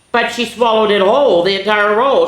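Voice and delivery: loud, high amazed exclaim. A narrator's reading. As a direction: marvel at it for the kids. Reader marvels at the whole roll.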